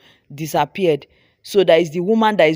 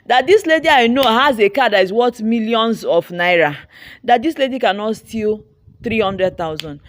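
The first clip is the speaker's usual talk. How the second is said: retold screaming; 3 dB louder than usual. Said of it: "I started screaming".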